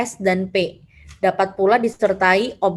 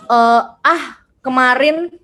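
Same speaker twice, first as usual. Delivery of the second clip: "ah, kemarin" as a raised, louder exclamation; exclamation intonation; 3 semitones higher, 4 dB louder, slower than usual. Shown as a demonstration. Teacher giving students an example sentence, exclaimed. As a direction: exclaim "ah, kemarin" with a lift at the end. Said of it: "Intonasi finalnya adalah ada tanda seru".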